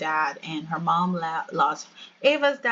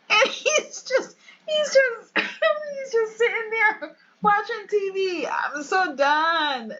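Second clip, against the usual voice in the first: high-pitched, squeezed through real laughter; helpless laughing; 11 semitones higher, slower than usual. Real, not acted. Player cracking up at man watching TV, helpless laughing. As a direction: drag the words out while cracking up.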